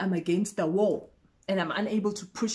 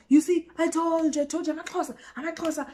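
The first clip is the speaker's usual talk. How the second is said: higher pitched, triumphant I told you; smug gloating; 8 semitones higher, faster than usual. Retold or imitated. Guy proving his point to the narrator, smug and high. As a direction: crow it like you won.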